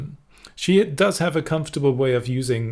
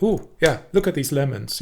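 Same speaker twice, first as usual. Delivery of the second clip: little excited burst; 3 semitones higher than usual. Retold or imitated. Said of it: "and that".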